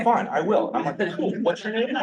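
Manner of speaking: high laughing mock dialogue; laughing through it. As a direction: retell the exchange while cracking up. Retold banter, laughing.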